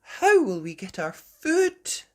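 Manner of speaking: a mild worried mum; Mummy Pig voice. Acted. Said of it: "said Mummy Pig".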